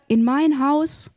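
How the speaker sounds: high, drawn-out incredulous question; narrated cry. A narrator's reading. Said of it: "schrie er".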